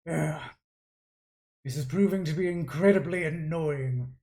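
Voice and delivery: irritated villain giving orders; annoyed artificer father. Acted. Father ordering changes to his creation, annoyed. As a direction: think aloud, testy and imperious.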